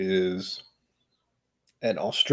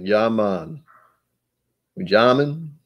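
lightly put-on Jamaican accent; easy Jamaican lilt, half-committed; much slower than usual. Host attempting Russian Jamaican, light Jamaican accent. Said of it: "Russian Jamaican is like".

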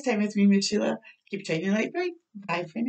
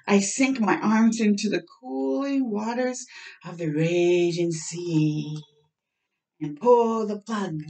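storybook reading; 2 semitones lower, slower than usual. Acted. Reads picture book aloud.

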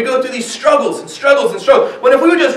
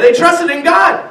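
higher, slower preaching shout; preacher driving home his point; emphatic proclamation; 6 semitones higher, slower than usual. Real, not acted. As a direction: ring it out to the congregation.

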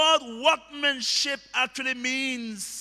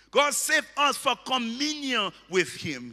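building pulpit refrain; emphatic sermon climax; full-force preaching; 5 dB louder than usual. Real, not acted. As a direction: preach it with mounting force to the last word.

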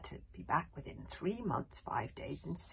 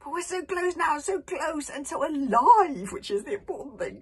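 gasped; 8 semitones higher, 13 dB louder than usual. A narrator's reading. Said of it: "gasped Fish Legs".

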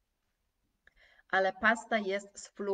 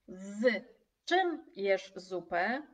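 slow, even question with a rise at the end; slow exam question; slower than usual. Shown as a demonstration. Examiner slowly asking students a question, slow and rising. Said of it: "Ale jeżeli egzaminator zapyta".

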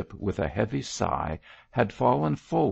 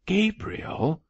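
trembling; 12 semitones higher than usual. A narrator's reading.

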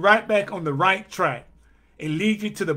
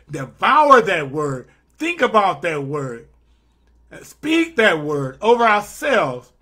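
preaching at full force; 3 dB louder than usual. Acted. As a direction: drive each "that word" home to the congregation. Preaching build, word repeated.

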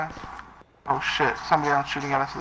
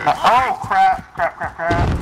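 panicked; 4 semitones higher, slower than usual. Real, not acted. Sniper fire, panicked cursing.

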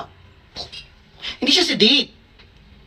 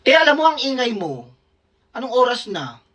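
mock scolding roommate; 5 semitones higher than usual. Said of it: "Sabi ni Jason".

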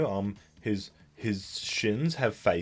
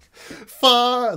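much higher and louder, a stretched yell; loud cry of far; 13 semitones higher, 8 dB louder than usual. Shown as a demonstration. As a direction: belt out the word Far! as a wild shriek. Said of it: "how is that vocalized?".

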